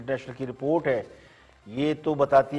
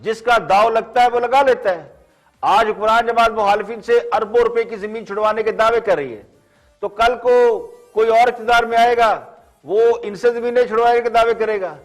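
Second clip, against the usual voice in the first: measured, pointed TV commentary with falling phrase ends; pointed editorial read, phrase by phrase; scripted editorial monologue; 8 semitones higher, 5 dB louder than usual. Acted. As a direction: deliver it like a dramatic news editorial, higher than chat.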